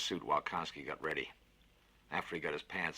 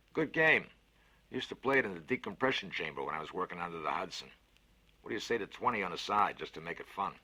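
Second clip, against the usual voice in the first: a big cheerful voice, lifted and louder; 3 semitones higher, 5 dB louder than usual. Acted. Fats cheers up the scared boy with a bet, hearty and loud. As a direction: sell the bet with gusto. Konski proposes chess bet.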